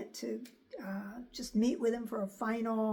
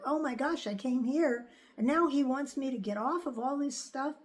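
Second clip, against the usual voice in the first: replaying a mild panic, pitch raised; mild retold panic; 3 semitones higher than usual. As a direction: lightly act out your own alarmed thoughts. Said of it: "I kind of panicked".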